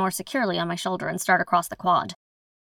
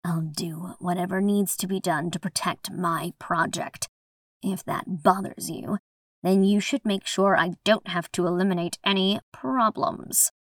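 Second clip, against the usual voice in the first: casual menace; 4 dB quieter than usual. Acted. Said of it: "deadly intent obvious beneath the casual tone".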